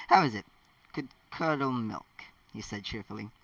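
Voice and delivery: lively read-aloud voice, characters lightly voiced; story narration. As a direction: read the story to your viewers. Reads the fan fiction aloud.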